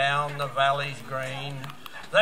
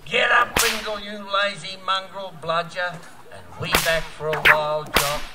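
bullock driver yelling; 2 semitones higher than usual. Retold or imitated. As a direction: bark orders at the team.

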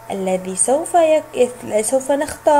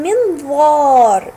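slow model word; 4 dB louder, much slower than usual. Shown as a demonstration. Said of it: "جاء حرف الضاء".

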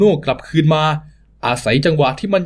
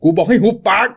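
furious shout. Acted. Thug yelling at the crying child, furious high shout. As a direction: bark the order to shut up.

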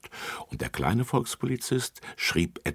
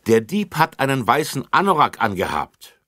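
high, loud eager call; two children call out the answer; 8 semitones higher, 7 dB louder than usual. Acted. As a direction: blurt it out like proud kids. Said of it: "riefen gleich zwei auf einmal".

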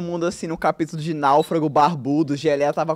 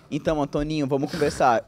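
serious talk voice; 3 semitones lower, 6 dB quieter than usual. Retold or imitated. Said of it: "mas ficou bom a entonação".

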